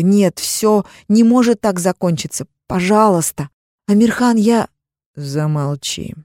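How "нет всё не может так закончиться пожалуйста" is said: usual speaking voice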